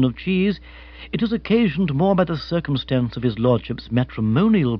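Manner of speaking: lightly voiced, measured butler; formal manservant. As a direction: correct a superior with elaborate courtesy. Jeeves politely corrects Sir Roderick.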